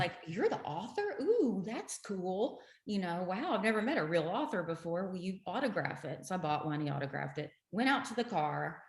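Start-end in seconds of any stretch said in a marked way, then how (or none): 0.3-6.2 gushing fan. Retold or imitated. Retelling her gush to the doctor author, mock starstruck. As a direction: replay your fangirl moment.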